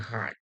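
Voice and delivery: "হার্ট" with U sounded as আ; U-as-a demonstration. Shown as a demonstration. Teacher giving a second example, "হার্ট" with U said as আ. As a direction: say "হার্ট" with an আ vowel. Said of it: "ইউ এর উচ্চারণ আয়ের মতো হয়".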